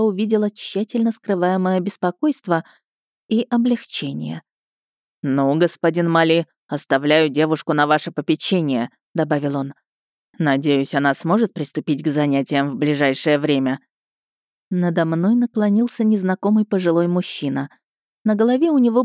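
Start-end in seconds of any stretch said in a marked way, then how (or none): 5.2-13.8 lower, authoritative headmaster; a hint of a stern man in charge; stern rector voice. (голос строгого ректора)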